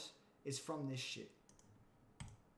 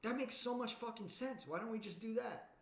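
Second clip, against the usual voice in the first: amazed heirs; 7 semitones higher than usual. Retold or imitated. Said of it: "And they're like".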